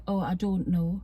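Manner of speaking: put-on Oh, I don't know with clear don't know, softened accent; toned-down Geordie. A singer on telly, softened Geordie accent. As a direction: say it the telly-friendly way. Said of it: "she'll say".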